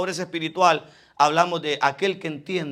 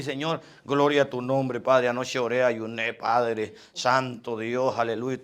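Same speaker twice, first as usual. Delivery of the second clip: mock boastful prayer; 7 semitones lower, 6 dB quieter than usual.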